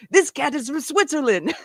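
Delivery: a hint of a Swiss host's accent, playful; mock Swiss accent, half-hearted. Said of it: "I can't do the accent".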